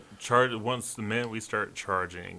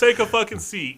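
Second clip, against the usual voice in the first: angry shout; 10 semitones higher, 4 dB louder than usual. Retold or imitated. S1 reenacts shouting at crowd.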